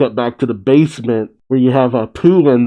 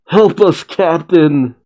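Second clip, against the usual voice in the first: high, pleading call to the captain; calling for help; 5 semitones higher, slower than usual. Acted. Crew member calls to captain, high pleading cry. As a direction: cry out for rescue, voice jumping up. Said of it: "Sachi calls out".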